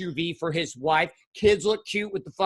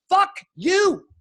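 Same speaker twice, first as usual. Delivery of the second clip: high, loud mock outburst; imitating his own angry retort; shouted fuck you; 11 semitones higher, 5 dB louder than usual. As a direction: spit it out at the preacher. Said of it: "I'm like".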